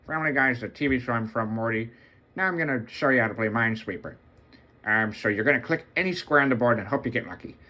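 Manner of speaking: a light, dopey cartoon dad, fast; breezy sitcom dad talking quickly; Peter from Family Guy. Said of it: "Peter from Family Guy".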